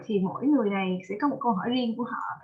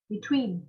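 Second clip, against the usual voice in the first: "Between" with TWEEN stressed; stress on second syllable. Shown as a demonstration. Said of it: "two, between".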